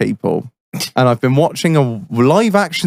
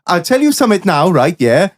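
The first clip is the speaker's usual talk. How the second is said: put-on raised, lilting Welsh accent; 5 semitones higher than usual. Welshman squaring up to his workmate, Welsh accent. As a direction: warn him like a riled Welshman. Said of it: "I'll do my best Welsh accent".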